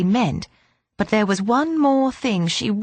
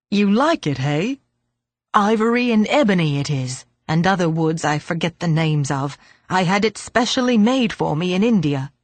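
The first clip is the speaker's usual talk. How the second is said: put-on old man voice; 2 semitones lower than usual.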